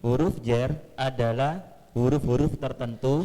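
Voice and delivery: garbled robotic phone mic; like a glitchy headset mic. Real, not acted. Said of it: "Suaranya kayak robot gitu".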